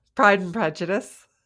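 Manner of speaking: upbeat, lilting rising pitch at end of Prejudice. Answering a question about an all-time favorite movie, upbeat, rising like a question. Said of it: "with an upbeat, almost question mark at the end".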